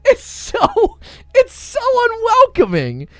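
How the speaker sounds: fake-sob the complaint; hammed-up crying whine; mock crying. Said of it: "mock crying complaint".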